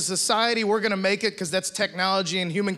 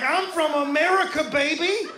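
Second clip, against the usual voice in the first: brash American; 8 semitones higher than usual. Retold or imitated. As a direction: puff up with American pride. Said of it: "I got real U S A".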